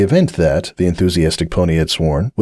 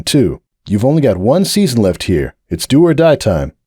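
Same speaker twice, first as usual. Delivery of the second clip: serious captain; 3 semitones higher than usual. Acted. Breakaway lectures Hoops.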